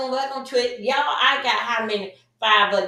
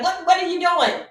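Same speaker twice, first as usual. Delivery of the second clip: higher voice, appalled question; outraged woman; 6 semitones higher than usual. Retold or imitated. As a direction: mimic a woman's outrage at him. Woman reacting to rough touch.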